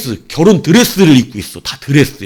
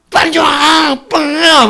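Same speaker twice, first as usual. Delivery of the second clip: high, loud squealing imitation of women calling the soldiers over; high excited come-here shout, hammed up; mock flirty call; 13 semitones higher, 5 dB louder, much slower than usual. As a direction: squeal it out like a woman beckoning.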